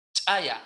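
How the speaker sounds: "chaya" with a popped ejective CH; explosive CH. Shown as a demonstration. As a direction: snap the CH of "chaya", gap before the vowel. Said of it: "C H explosiva".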